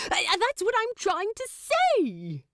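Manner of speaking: high, stammering angel exclaiming; flustered exclaim. A narrator's reading. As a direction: blurt it out, finally interrupting. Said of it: "Aziraphale exclaims".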